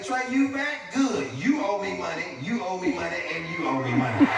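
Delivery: put-on young girl. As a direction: play a nine-year-old demanding payment. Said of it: "She came out that bathroom".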